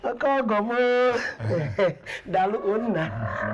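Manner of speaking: jubilant whoops broken by laughter; gleeful exclamations and chuckles; delighted. Acted. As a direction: crow with joy, drawing words out. Mother rejoices over generous suitor.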